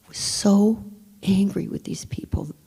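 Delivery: hushed, whispered fury; whispered anger. Real, not acted. Narrator recalling her anger, whispered. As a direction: whisper it through contained rage.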